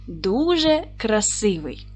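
whispered aside. Shown as a demonstration. Teacher whispering the meaning to pupils. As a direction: breathe дуже красивий as a hushed hint. Teacher explaining a prefix rule.

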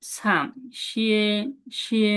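শিয়ে drawn out slowly, tone shown; slow tone demo. Shown as a demonstration. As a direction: stretch শিয়ে slowly to show the tone. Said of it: "second টোনটা কি হবে".

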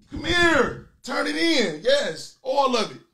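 high, loud bossy pimp call; pimp demanding money. Retold or imitated. Pimp calling his girl over for the money, high and loud. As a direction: snap at her to hand over all the bankroll. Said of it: "It's pimping".

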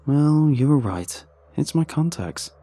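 loud, high, drawn-out grudging admission; exaggerated groan. A narrator's reading. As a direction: groan out that the other was right, hammed-up. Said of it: "I groaned exaggeratedly".

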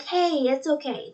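slow, gentle reassurance, lightly voiced; calming child. Little girl calming the upset dreamer, slow and soothing. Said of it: "she tries to calm me down".

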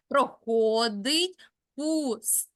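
slow and even, "Проходить пустельний" run together without a stop, the weight falling on "пустельний"; scanning the metre. Shown as a demonstration. Teacher showing a student how to keep the rhythm, slow and even. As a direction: let the rhythm carry the line forward. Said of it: "Тобто не можна зупинятись".

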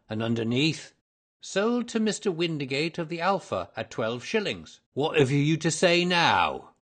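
high, emphatic trader scoring a point; triumphant salesman. A narrator's reading. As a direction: build to a loud, crowing challenge. Salesman proves his point triumphantly.

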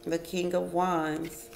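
ordinary talk, nothing marked

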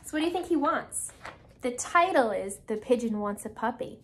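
ordinary delivery, nothing marked

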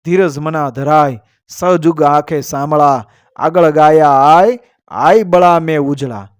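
measured, metrical couplet delivery; verse recitation. A narrator's reading. Storyteller reciting a couplet to listeners, verse recitation. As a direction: recite it as an old heroic verse.

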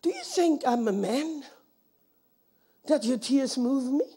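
lightly deepened divine voice; voice of God. Retold or imitated. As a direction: speak low and measured as God himself. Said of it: "The Lord says to me".

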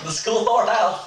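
chuckling it out; laughing. Real, not acted. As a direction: repeat it through giggles. Repeating through laughter.

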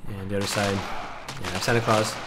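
eating while talking; chewing nuts between words; crunching nuts. Real, not acted. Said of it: "Sorry for my crunching if you hear it".

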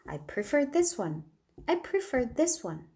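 I prefer this one said very slowly and clearly; slow model sentence. Shown as a demonstration. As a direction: spell out I prefer this one word by word. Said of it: "이게 더 좋아라는 뜻의 동사입니다".

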